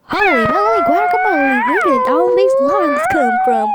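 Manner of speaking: high, excited yelp of surprise; surprised shout. Real, not acted. Player shocked by the sudden lines, squealing high. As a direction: squeal it out as things go wild. Panicked exclamation while rolling.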